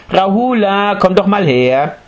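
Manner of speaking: put-on high sing-song call to a child. Mother calling her son over. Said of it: "rief sie".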